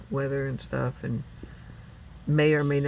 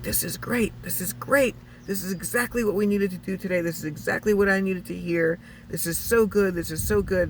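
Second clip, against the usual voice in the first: excited therapist; 4 semitones higher than usual. Retold or imitated. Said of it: "And he's like".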